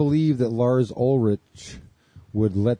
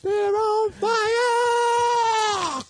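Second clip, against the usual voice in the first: while gargling; much slower than usual. Real, not acted. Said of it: "I'm gargling with Pop Rocks".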